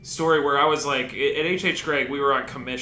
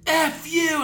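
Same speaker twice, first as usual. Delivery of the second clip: high, loud retort at the boss; furious retort; 4 dB louder than usual. Retold or imitated. Worker swearing back at his manager, high and loud. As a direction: fire it back in a rage. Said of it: "cussed him out".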